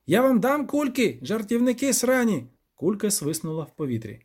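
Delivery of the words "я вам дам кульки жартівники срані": high, raging creature shout; furious goat devil. A narrator's reading. Devil curses the fleeing jokers, high furious. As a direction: yell after them in fury.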